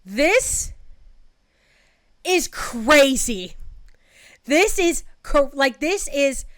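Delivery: high, loud, drawn-out disbelief; can't believe what she's reading; exasperated outburst. Real, not acted. Exasperated reaction to the messages.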